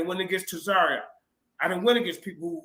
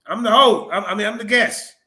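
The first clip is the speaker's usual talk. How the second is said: mock host; 8 dB louder than usual. Mocking the host mid argument.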